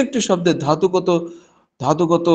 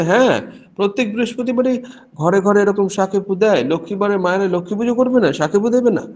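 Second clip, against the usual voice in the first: mock surprised devotee; 4 semitones higher, faster than usual. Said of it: "বলে".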